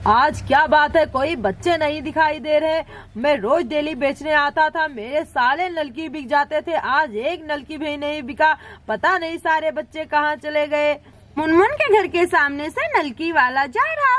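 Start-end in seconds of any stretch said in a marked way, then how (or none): 0.1-10.9 puzzled street vendor. Acted. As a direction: wonder aloud where the customers went, pitched down.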